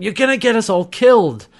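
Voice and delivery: high, loud exasperated quote; acted panicked protest. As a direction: imitate someone frantically protesting.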